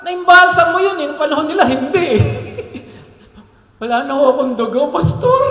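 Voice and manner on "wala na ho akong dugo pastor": mock congregant. Pastor mimics a churchgoer with no blood left, mock whine. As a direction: play a fainting churchgoer for laughs.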